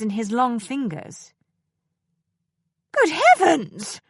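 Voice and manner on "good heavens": loud, high, slow exclamation meant to fill the room; carrying voice. A narrator's reading. Concordia catching the girls at cards, carrying exclamation. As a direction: project it across the library, slow and stern. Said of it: "in her most carrying voice".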